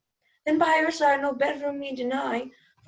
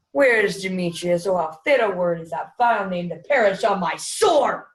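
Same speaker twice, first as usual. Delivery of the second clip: louder, impassioned outburst; passionate declaration; 4 dB louder than usual. Acted. Lysander declaring love for Helena, loud and passionate. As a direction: pour it out fervently.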